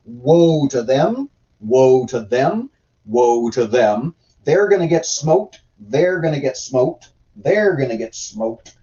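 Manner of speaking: lightly mocking, slow repeated refrain; mock prophet. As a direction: intone it like a repetitive prophet, each phrase alike. Mimicking Isaiah's repetitive prophecies.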